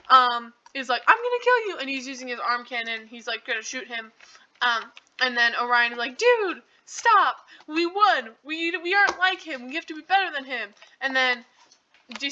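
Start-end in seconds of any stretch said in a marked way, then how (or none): 1.0-1.8 high-pitched mock death threat. Acted threat from angered D sixteen. 6.2-10.7 pitched-up retold pleading, easing off; urgent plea. Acted plea to stop a friend.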